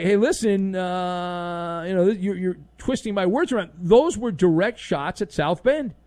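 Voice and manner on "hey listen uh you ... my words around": defensive coach excuse. Acted. Host imitating a coach explaining himself, defensive hedging. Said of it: "it wasn't like".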